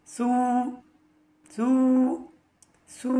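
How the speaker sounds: সু with rounded lips and lisped th; tha with damma. Shown as a demonstration. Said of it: "দুই টুট গুল হয়ে যাবে এভাবে". (ঠোঁট গোল করে সু)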